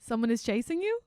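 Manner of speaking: quoted line in a mock Russian accent. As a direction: imitate a Russian accent on the question. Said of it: "say it in the accent".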